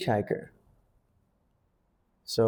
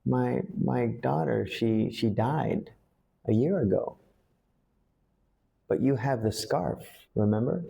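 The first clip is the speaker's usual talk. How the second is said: grieving mother. Shown as a demonstration. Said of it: "the mother goes on to say".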